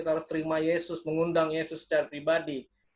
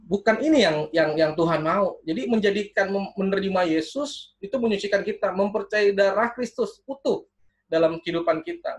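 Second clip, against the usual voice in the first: loud, emphatic preacher driving the point home; preaching with force; 4 semitones higher, 4 dB louder than usual. Acted. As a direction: preach it firmly and loudly. (berkhotbah dengan lantang dan tegas)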